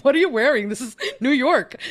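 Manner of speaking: high, loud laughing disbelief at the hat; mock incredulous, laughing it out. Retold reaction to topi, laughing.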